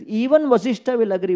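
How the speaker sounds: a hint of the sage insisting on Even; sage's confident retort. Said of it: "He says".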